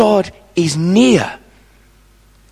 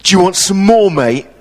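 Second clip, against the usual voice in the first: loud, menacing taunt; a mild mock snarl at a kid; bully taunting the boy by the river; snarling thug; 4 dB louder than usual. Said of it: "he snarled and he said".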